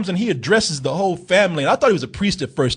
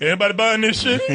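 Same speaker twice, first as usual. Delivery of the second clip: laughing mock aside; 4 semitones higher, faster than usual.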